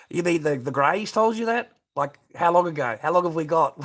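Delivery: can't believe what he's reading; incredulous laughing disbelief. Real, not acted. Amused disbelief at comment about Greys.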